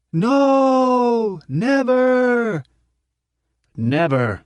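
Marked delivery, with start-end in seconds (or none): 0.1-2.6 high, loud mob shout; crowd roar. A narrator's reading. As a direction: roar it back, defiant. Crowd roars refusal.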